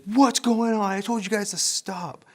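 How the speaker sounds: high-pitched imitation of an exasperated mother; scolding mom. Mom walking in on her fighting sons, scolding. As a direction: put on a mother's telling-off.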